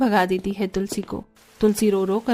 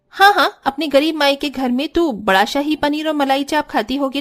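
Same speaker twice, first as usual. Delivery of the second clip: mocking taunt; 3 semitones higher than usual. Jethani taunting poor devrani.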